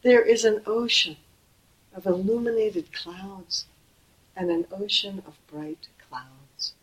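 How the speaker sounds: measured, solemn reading slowing at the end; ceremonial recitation. Acted. Teacher reciting the ceremony text to students, solemn. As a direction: recite the liturgy, slowing into the clouds. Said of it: "So in the ceremony it says".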